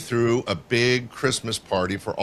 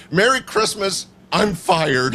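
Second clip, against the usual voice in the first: rueful mock dismay; 8 semitones higher, 4 dB louder than usual. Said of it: "she thought".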